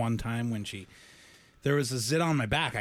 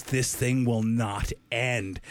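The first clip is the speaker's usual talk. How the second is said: weary complaint; much slower than usual. Retold or imitated. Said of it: "she just sat there and goes".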